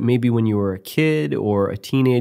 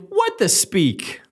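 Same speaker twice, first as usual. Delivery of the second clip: dramatic announcer; 7 semitones higher, much slower than usual. Acted. Dramatic show-title announcement.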